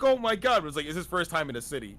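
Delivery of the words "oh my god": high, loud excited outburst; freaking out. Retold or imitated. Retelling Roy's first time in a city, freaking out. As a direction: imitate an overwhelmed, freaked-out reaction. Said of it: "freaking out".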